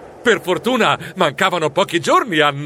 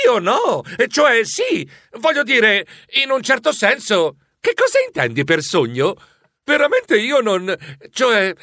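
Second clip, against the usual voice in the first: confused stammering; 3 semitones higher than usual. Acted. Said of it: "balbettai confuso".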